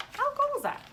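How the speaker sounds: squealed high with delight; a high, gleeful exclamation; excited. Real, not acted. Teacher marvelling to kids.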